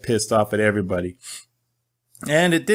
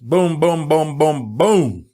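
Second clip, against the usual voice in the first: quick booms; 2 semitones higher, much slower than usual. Shown as a demonstration. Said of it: "went through all those really fast".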